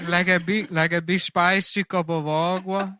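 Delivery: high, loud hammy noir narrator; noir detective. Pretend. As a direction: play the hard-boiled detective big. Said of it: "It's just the voice".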